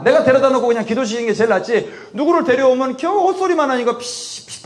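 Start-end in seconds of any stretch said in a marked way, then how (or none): 4.0-4.6 hissed puffs of escaping air; leaking-air sound. Retold or imitated. Preacher mocks visiting speakers' empty preaching, leaking-air puffs. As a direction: imitate a tyre losing its air. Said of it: "바람 빠진 소리만 하니까".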